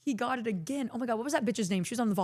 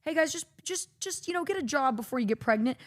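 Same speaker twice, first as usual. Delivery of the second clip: mock teacher; 5 semitones higher than usual. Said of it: "like, not".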